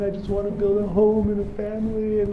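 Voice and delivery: high, earnest plea; pouring heart out. Acted. Boy confiding in the Kabbalist, pouring his heart out. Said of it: "starts pouring out his heart and soul".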